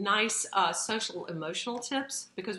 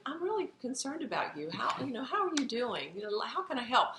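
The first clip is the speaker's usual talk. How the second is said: higher, half-hearted concern while checking a phone; distracted parent; 6 semitones higher than usual. Parent glued to phone asks child how they're doing, higher, distracted. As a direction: ask with your eyes still on the screen. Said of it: "you're saying".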